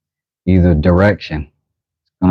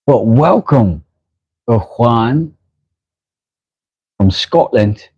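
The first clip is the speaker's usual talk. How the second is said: higher-pitched mock Scottish accent; Groundskeeper Willie; 5 semitones higher than usual. Streamer welcoming a Scottish viewer, in a mock Scottish accent. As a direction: put on a cartoonish Scottish brogue. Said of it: "The only Scottish accent I have might be Groundskeeper Willie".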